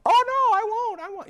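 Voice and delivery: high, loud, put-on patient voice; patient at the front desk eagerly promising not to forget; eager patient promise.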